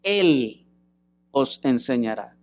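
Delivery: Él lifted as the key word; Él given the weight, os enseñará falls away; stress on Él. Shown as a demonstration. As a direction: lean on Él. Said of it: "observen el énfasis gramatical".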